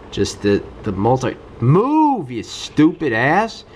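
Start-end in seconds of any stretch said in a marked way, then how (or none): 1.6-3.6 high snapping yell at the game; frustrated yell. Real, not acted. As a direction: snap it at the screen. Frustrated gamer yelling at game.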